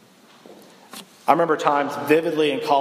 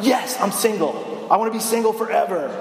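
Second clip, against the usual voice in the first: mock fake contentment; 6 semitones higher than usual. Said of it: "It's not".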